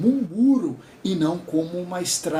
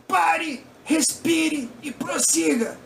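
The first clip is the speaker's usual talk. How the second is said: high, slow and choppy, each word set apart; a robotic instructor reading out orders; lightly imitated stiff examiner telling the crying girl to go on; mechanical examiner voice; 9 semitones higher, much slower than usual. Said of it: "ele falava de uma forma engraçada".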